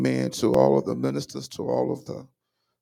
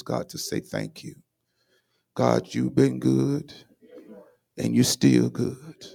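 earnest prayer. Real, not acted. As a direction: pray earnestly, gathering force as it goes. Leads congregation in prayer.

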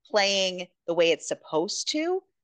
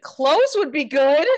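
deadpan request; 5 semitones higher, 7 dB louder than usual. Retold or imitated. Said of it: "And she's like".

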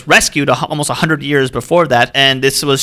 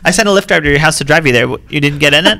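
mock scolding.

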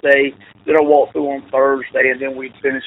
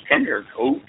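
a higher, lightly imitated summons; Mister Albert; 7 semitones higher than usual. Colleague calling the coach into his office, imitated. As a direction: mimic his odd way of talking, pitched up. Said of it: "You know how he talks".

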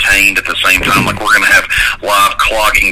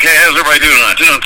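cheery server voice; 8 semitones higher, faster than usual. Retold or imitated. Mock cheery drive-thru greeting.

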